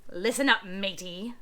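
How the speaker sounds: low gruff pirate captain. Acted. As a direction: growl it like a greedy old sea dog. Pirate Pete voice.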